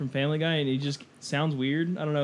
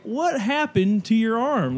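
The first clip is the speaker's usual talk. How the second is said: slow, higher-pitched retold question; mock-polite question; 4 semitones higher, much slower than usual. Retelling a bar patron asking about a missing arm, mock-polite. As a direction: ask it with drawn-out, put-on politeness. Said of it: "like, being polite to him".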